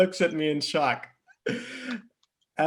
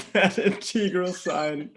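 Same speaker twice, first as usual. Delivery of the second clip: laughing; 4 semitones higher than usual. Real, not acted. Reader cracking up at the story.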